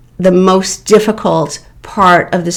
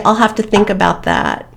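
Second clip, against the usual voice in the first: even, unhurried and emotionless; calm, no emotion; 4 dB quieter than usual. Shown as a demonstration. Advising someone facing a badgering narcissist, calm and emotionless. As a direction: say it calmly and let nothing show. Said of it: "You just calmly and with no emotion say".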